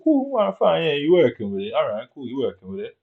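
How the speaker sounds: high, breezy fake agreement; mock acceptance. Going along with her tale, airy and high. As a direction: play along with a shrug in the voice.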